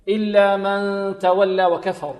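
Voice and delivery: slow loud إلا من تولى وكفر; loud slow recitation. Shown as a demonstration. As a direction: project the verse. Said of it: "نون ساكنة وبعدها تاء". (تلاوة جهرية)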